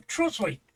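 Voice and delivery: TROSLEY in two syllables, "TROZ-lee"; local pronunciation. Shown as a demonstration. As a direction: say TROSLEY with the cliff swallowed into "lee". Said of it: "That's how it's pronounced".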